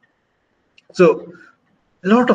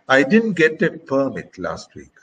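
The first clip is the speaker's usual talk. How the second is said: "permit" stressed on its first syllable, PER; weight on the start of "permit"; noun stress; 3 semitones higher than usual. Shown as a demonstration. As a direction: say "permit" as PER-mit within the sentence. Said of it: "stress the word on the first syllable".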